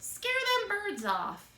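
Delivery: put-on loud, high old woman order. A narrator's reading. Old woman ordering the rabbit to work, loud and high. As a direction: bark it like a bossy old woman.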